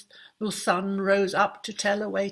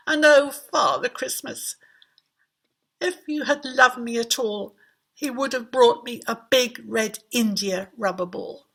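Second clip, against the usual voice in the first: louder lament; 2 semitones higher, 5 dB louder than usual. Acted. King's disappointed plea.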